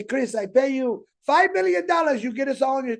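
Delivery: lightly put-on Bangladesh accent. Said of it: "pretty good Bangladesh accent".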